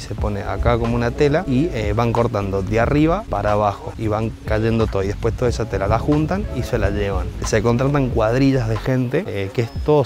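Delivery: muffled behind cloth mask; speaking masked outdoors; through a face mask. Real, not acted. Seen 3: Black face mask with valve covers mouth throughout; reference frames show him unmasked.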